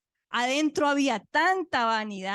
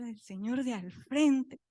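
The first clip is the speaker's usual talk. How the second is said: slow, drawn-out disbelief; stretched-out echo at usual pitch; dismayed echo; slower than usual. Retold or imitated. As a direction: repeat it slowly, taken aback. Her dismayed echo of the order.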